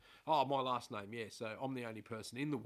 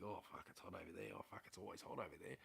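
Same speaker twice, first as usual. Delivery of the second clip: mock moaning Victorians; 4 semitones lower, 11 dB quieter than usual. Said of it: "and they think".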